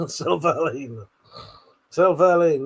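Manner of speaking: "Silverline" said as sel-va-leen; "Silverline" again as sel-va-leen; pronunciation demo. Shown as a demonstration. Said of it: "There you go".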